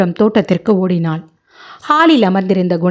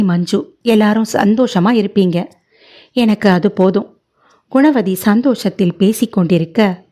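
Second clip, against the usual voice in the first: usual speaking voice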